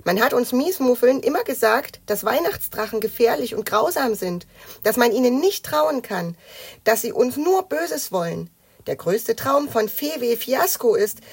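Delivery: high-voiced musing creature; thoughtful. A narrator's reading. Knötterchen recalls warnings about dragons, thoughtful. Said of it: "sagte Knötterchen nachdenklich".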